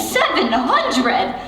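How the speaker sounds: slow shocked echo; aghast at the age; surprised. Acted. Star shocked at character's age.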